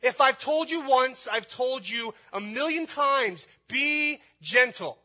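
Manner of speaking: loud, high angry dad yell; fire-breathing scolding. Acted. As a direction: yell it at your son, dragging out the command. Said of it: "I breathe out fire on my son".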